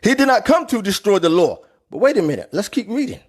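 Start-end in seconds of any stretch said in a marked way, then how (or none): 0.0-1.6 higher, mocking voice of the know-it-all critics. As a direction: parody the people who quote one line, pitched up. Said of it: "And then you get people say".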